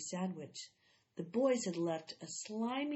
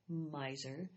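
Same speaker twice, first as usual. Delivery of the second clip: low, soft grumbled "Miser"; a boy grumbling "Miser" as the door shuts; muttered insult; 5 semitones lower, 5 dB quieter than usual. A narrator's reading. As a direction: mutter it under your breath at her. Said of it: "Jessie heard Evan mutter".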